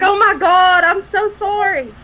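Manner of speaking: apologetic dismay. Retold or imitated. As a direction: gasp out the sorry. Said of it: "the me part of me was like".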